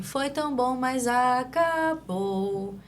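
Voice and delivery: put-on sing-song child voice, drawn-out acabou; emotional delayed echo of a stock line; echolalic child's phrase. Shown as a demonstration. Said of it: "A gente vai perceber uma entonação diferente".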